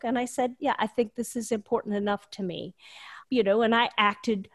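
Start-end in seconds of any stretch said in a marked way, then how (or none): 0.6-2.8 whispering. Retold or imitated. Retold reply to sponsor.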